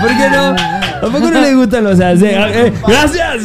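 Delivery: mock Argentine accent. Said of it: "hablar con acento argentino".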